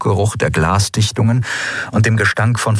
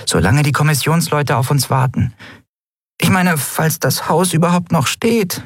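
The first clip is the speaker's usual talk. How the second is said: high, small fretting voice; anxious little fairy voice, much higher; worried tiny Nelen; 9 semitones higher than usual. A narrator's reading.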